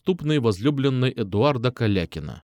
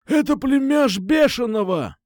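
much higher, excited cry; exclaiming; 12 semitones higher than usual. A narrator's reading. Kukusha reveals the hero's uncle, excited cry. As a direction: blurt out the news in surprise. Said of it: "воскликнул Кукуша".

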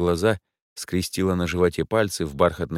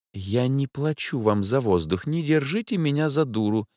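Angela interrupting; 7 semitones higher than usual. A narrator's reading. The client cuts off the professor, indignant. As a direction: cut him off, offended. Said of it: "перебила она".

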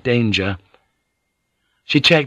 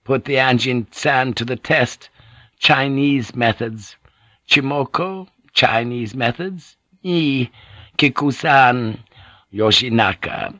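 lightly voiced Gyoko, higher; grim Gyoko; 5 semitones higher than usual. Gyoko warning the lady of torture, lightly voiced and bitter. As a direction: list it out piece by piece, pausing.

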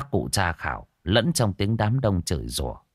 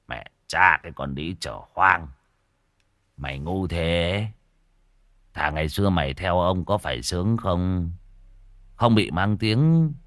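put-on drunken slur; 3 semitones lower than usual. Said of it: "cất giọng lè nhà lè nhè".

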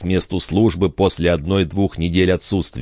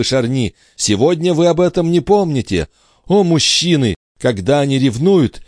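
higher, impassioned queen confessing her jealousy; jealous queen; 7 semitones higher than usual. A narrator's reading. Queen confesses jealousy to Charny, higher impassioned voice. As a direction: pour out her heartache as the queen.

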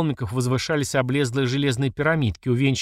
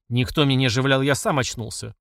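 plain reading voice

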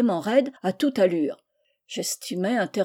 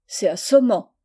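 a bit louder, exasperated; said aloud in annoyance; 5 dB louder than usual. Acted. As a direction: say it out loud, fed up. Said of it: "dit-il à haute voix en anglais". (à voix haute, agacé)

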